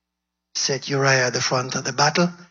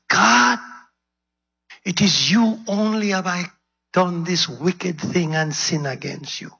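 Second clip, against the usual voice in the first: pleading prayer; 4 semitones higher than usual. Acted. King David begging God for forgiveness, building. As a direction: plead upward, building with each line.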